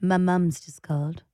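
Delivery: slowly, with a lightly plummy mum; mock posh. Partner echoes the husband's proper phrasing, slow and mocking. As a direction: echo his phrasing as too proper. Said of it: "What's wrong with that".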